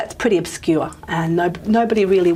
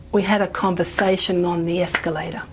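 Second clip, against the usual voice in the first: neutral reading, main stress on the final word escalator; neutral declarative reading. Shown as a demonstration. Lecturer tests where to clap, neutral declarative reading. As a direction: read it neutrally, accent landing on escalator. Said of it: "in this neutral declarative reading".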